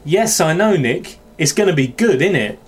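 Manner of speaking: demonstrating a Welsh lilt; lightly Welsh model sentence; Welsh accent. Acted. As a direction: give the line a put-on Welsh accent. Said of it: "a very thick Welsh accent".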